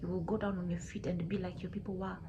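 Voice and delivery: measured divine judgement with long pauses; grave, deliberate reproach, stretching key words; stern god of the land. Acted. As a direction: pronounce sentence as a solemn, controlled deity.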